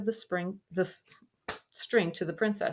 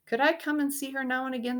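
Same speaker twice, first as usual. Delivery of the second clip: put-on timid boy; 8 semitones higher, 3 dB louder, faster than usual. Poor boy asks timidly.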